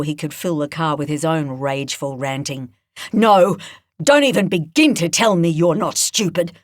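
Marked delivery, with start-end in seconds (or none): 3.1-6.6 loud, angry snarl. Acted. Edna snarling at the cuffed boy, angry. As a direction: bite off the words in anger. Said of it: "she snarled".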